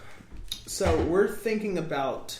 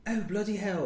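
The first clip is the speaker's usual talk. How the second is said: put-on British accent; 6 semitones higher than usual. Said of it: "Is it like".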